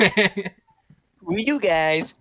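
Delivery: lightly voiced Cartman, drawn out; a hint of Cartman, stretched slow; Cartman impression. Quoting Cartman to a friend, lightly voiced. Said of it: "impression of that".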